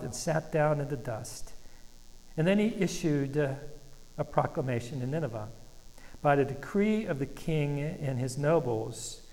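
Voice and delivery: slow, measured reading of the king's decree; scripture reading. Acted. Pastor reading the Nineveh decree to the church, slow and measured. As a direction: let each line of the decree land slowly.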